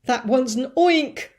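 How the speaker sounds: high, loud fire chief scream. A narrator's reading. Fire chief screaming down from the roof. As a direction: shriek it in a panic. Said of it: "screamed the head of the fire department".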